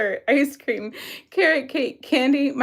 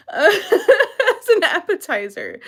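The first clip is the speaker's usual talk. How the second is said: laughing; 5 semitones higher than usual. Real, not acted. Laughing at quiz options.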